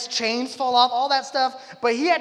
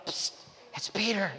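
hushed psst at a door; discreet; 6 dB quieter than usual. Retold or imitated. Peter knocking discreetly in the night, discreet and hushed. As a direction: act out keeping it down so nobody overhears. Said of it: "knocking on the door discreetly in the night".

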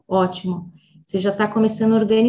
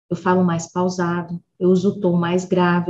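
lower voice demo; 4 semitones lower than usual. Shown as a demonstration. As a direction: drop the pitch lower while saying "grave".

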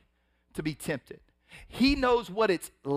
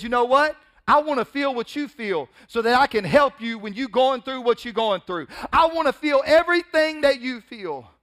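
earnest Jesus; 8 semitones higher, 8 dB louder than usual. Retold or imitated. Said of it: "He said".

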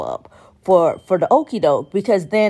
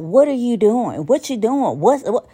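slightly higher, exasperated "What are you doing?"; mocking repeats; 4 semitones higher than usual. Shown as a demonstration. Mocking text shorthand, exasperated repeats. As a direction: toss the phrasing around, exasperated. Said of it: "Spell it out".

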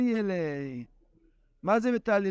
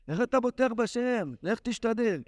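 a higher-pitched scoffing challenge; mock roar; 4 semitones higher than usual. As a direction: imitate the scoffer's roar of doubt. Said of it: "שאגה כזאת".

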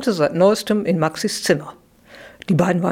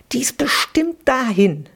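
whisper; 5 semitones higher than usual. Acted. Sibling suspects secretly.

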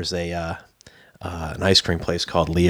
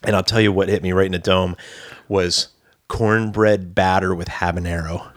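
ordinary talk

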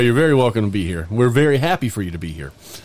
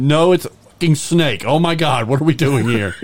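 higher, louder alarmed cry; mock panic; 4 semitones higher, 3 dB louder than usual. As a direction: act out the sudden fright. Panicked at snake-elephant.

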